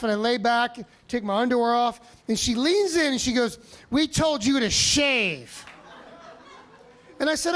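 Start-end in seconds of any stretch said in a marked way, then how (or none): 3.9-5.6 scolding nurse. Retold or imitated. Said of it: "She was pissed for some reason".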